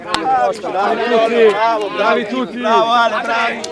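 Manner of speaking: loud, high cheering praise; excited praise. Real, not acted. Coach cheering his players after a good play, excited praise. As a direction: celebrate the players loudly.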